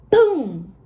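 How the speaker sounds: loud thunder boom. A narrator's reading. The goat imitates thunder, loud boom. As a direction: shout it like thunder.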